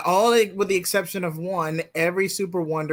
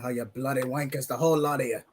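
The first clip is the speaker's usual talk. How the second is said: fake British accent; 3 semitones lower, 3 dB quieter than usual. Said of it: "fake British accent".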